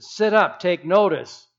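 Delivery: loud, urgent "Sit up, take notice. God, look."; demanding shout at God; urgent call. Shown as a demonstration. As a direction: call God to attention, loudly. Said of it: "It means".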